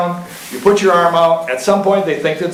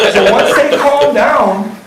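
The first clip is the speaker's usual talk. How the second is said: laughing; 8 semitones higher, 5 dB louder, much slower than usual. Real, not acted. Still laughing after the joke.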